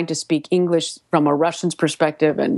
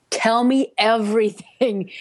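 eager demand; 5 semitones higher, slower than usual. Retold or imitated. Retold eager demand to him.

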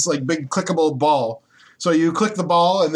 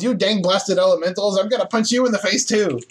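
retold dwarf yell; 5 semitones higher than usual. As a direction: play-act a feisty yell without full volume. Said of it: "And he yells".

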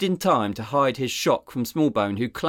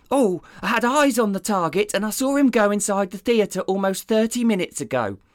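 much higher, dopey sidekick voice; dim deputy voice; 11 semitones higher than usual. Acted. Deputy rambling to his boss about coffee, dopey and high. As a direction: play the clueless deputy.

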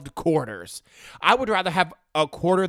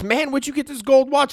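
higher, louder scolding mom; higher, louder mock mom; voiced mom; 8 semitones higher, 5 dB louder than usual. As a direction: play the mom who caught him.

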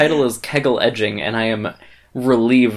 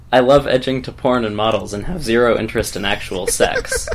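put-on Canadian accent. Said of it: "Canadian accent incoming".

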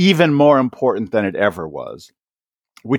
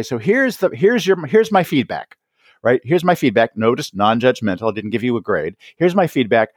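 teacher handing back feedback. Retold or imitated. Voicing a teacher returning work.

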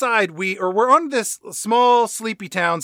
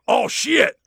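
Gary Busey; 5 semitones higher than usual. Retold or imitated. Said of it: "his exact words are".

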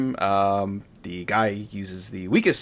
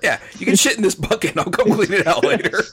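higher, brighter mock offer; lightly voiced joking host; mock cheerful voice; 7 semitones higher than usual.

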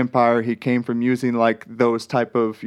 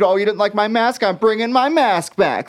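put-on high, sulky whiny teen; whiny emo voice; 8 semitones higher than usual. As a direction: pout it out like an emo kid. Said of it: "you've given him a whiny emo voice".

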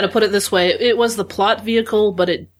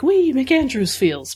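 higher, drawn-out mock fan delight; playful glee; 6 semitones higher, slower than usual. Newbie fan recalling her reaction to the show, playful glee. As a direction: stretch it out in a lightly hammed-up cheer.

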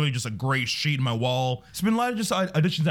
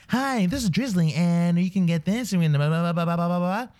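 chirpy ad spokeswoman; 4 semitones higher than usual. Retold or imitated. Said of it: "the girl in the center".

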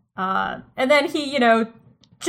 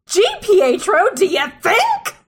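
sarcastic; 8 semitones higher, 3 dB louder than usual. Acted. Sarcastic reply to character.

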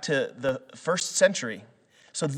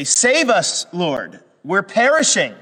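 pleading cry; 5 semitones higher, 5 dB louder, slower than usual. Retold or imitated. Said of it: "they say".

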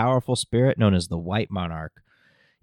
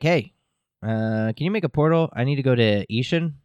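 higher, brighter pleading voice for Lane; a lightly higher, eager ask; mock Lane; 5 semitones higher than usual. Fairy Lane asking Toya for a portal, higher eager voice. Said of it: "She's like".

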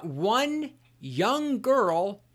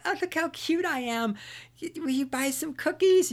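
put-on much higher, sugary little girl voice; cute little girl; 10 semitones higher than usual. Girl Scout batting her eyes at a buyer, sugary high voice. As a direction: play up the cuteness to sell. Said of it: "and be like".

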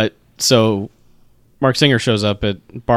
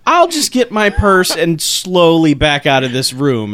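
higher, slow mock-polite backing away; nervous exit; 4 semitones higher, slower than usual. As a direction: edge out of the room, lightly voiced. Barbara wants to leave.

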